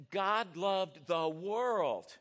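very slow, weighty telling; Jesus speaking, imagined. Shown as a demonstration. Pastor voicing Jesus telling Nicodemus, slow and weighty. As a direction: let each word land like Jesus to Nicodemus. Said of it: "I see him talking like this".

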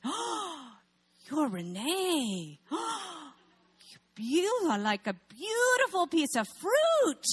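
high, slow, breathy-gasp rapture; delighted gushing clerk. Retold or imitated. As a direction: marvel at her like a treasure. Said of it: "And he goes".

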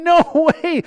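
loud, high alarmed yell; pretend scream. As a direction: shout to stop a friend in danger. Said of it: "You're gonna scream".

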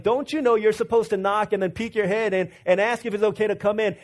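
high, loud outraged retelling; indignant outburst. Retold or imitated. Father to intruder bursting in, loud indignant shout. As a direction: relive your fury at the rude intruder. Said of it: "I was really upset".

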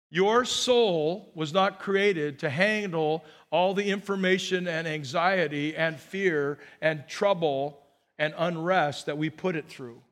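measured, weighty preaching pace; unhurried first statement; slow, deliberate statement. Real, not acted. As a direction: spell it out slowly, word by word. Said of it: "Let me just say it again".

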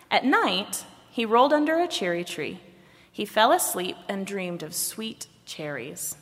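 animated storybook narration with deliberate pauses; storytelling. A narrator's reading. Reader shares a folk story with the congregation, storytelling. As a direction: read it like a picture book, phrase by phrase.

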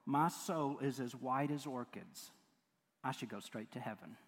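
a touch of piety, dragged out; lightly mocking smug quote. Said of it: "Direct quote".

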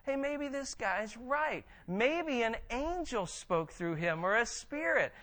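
lightly voiced Pharisees reconsidering; musing Pharisees. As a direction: act out them changing their minds. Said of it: "they're like".

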